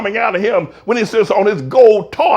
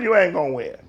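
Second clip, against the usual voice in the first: quiet warning; 3 semitones lower, 7 dB quieter than usual. Real, not acted. Preacher repeats warning.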